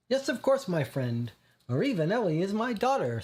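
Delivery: put-on Italian-accented father, high and proud; strong Italian accent, effusive welcome. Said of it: "a strong Italian accent".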